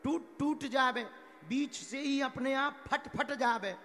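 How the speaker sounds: imitating a stone crying bitterly; mock bitter crying. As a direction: wail it as a hammed-up complaint. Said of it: "भयंकर पत्थर रोने लगा".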